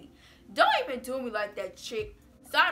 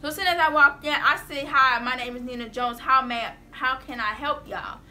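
louder, hot and angry; mad; 7 dB louder than usual. Real, not acted. Walking into the counselor office, loud and mad. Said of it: "baby, I'm mad".

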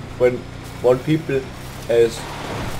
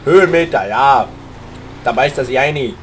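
Armin Assinger; 2 semitones lower than usual. Retold or imitated. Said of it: "I'm imitating Armin Assinger".

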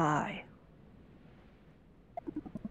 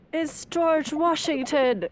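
mock surprise; 8 semitones higher, 6 dB louder, slower than usual.

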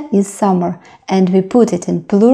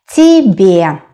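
slow, separated syllables in "Тебе"; careful teacher's "Тебе", stretched out; slow model; 3 dB louder than usual. Shown as a demonstration. Teacher models new word slowly.

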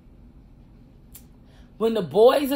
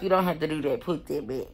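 quieter, softer, lower and gently dismissive; calmer retake; 3 semitones lower, 5 dB quieter, faster than usual. Retold or imitated. Guard gently tells her she needn't bother, quiet and calm. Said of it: "I think she was like".

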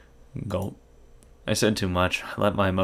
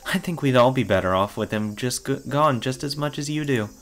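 creepy voice. Acted. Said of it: "strange and creepy voices".

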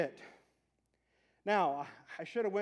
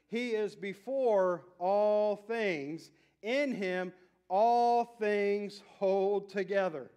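slow, weighty reading of the verses; scripture reading; 3 dB louder, much slower than usual. Acted. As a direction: read each verse slowly and deliberately.

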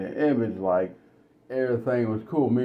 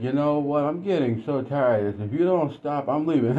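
higher, pleading wife pushing back; wife's voice; 5 semitones higher than usual. Retold or imitated. Wife telling her husband she's had enough. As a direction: voice the fed-up wife threatening to leave. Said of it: "And then she's like".

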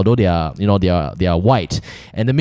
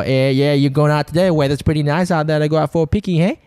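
slightly lifted, chatty Australian imitation; Australian accent; 4 semitones higher than usual. Showing friends how Australians chat, imitated Australian accent. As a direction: put on casual Australian small talk. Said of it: "the way they speak".

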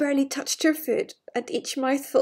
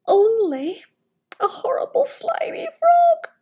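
disgusted whisper; 11 semitones higher, slower than usual. Acted. Princess disgusted by frog.

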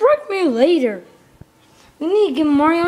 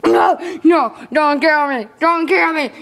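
pleading. Real, not acted. Pleading with attacker in game.

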